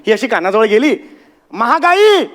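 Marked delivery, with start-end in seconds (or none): 1.5-2.2 a mock shout into the ear; retold shout. The aunt yells the name into the baby's ear, mock shout. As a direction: yell it like the aunt did. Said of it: "असं ओरडली".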